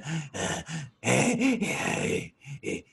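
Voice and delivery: rasping monster breaths, exaggerated; imitated heavy breathing. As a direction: mimic nasty heavy wheezing breaths.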